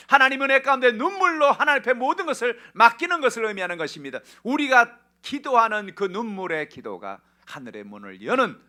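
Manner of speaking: very loud, high-pitched pulpit cry; impassioned shouted exhortation, sustained high; full-force preaching. Real, not acted. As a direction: preach it at the top of your voice.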